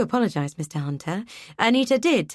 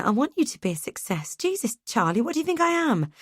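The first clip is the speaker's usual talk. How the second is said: higher spouse voice rising in hurt; Sal, upset; 3 semitones higher than usual. Acted. Sal on the phone defends herself, higher and increasingly upset. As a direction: defend yourself, getting wound up.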